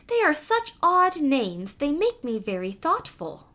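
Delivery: lightly voiced thoughtful mouse; a hint of a worried mouse. Mouse telling cat the names trouble it, light mouse voice.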